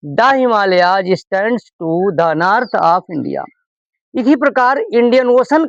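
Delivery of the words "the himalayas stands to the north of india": slow, word-by-word model sentence; slow dictation. Shown as a demonstration. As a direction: read each word out slowly for the class. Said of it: "दा बोला जाएगा".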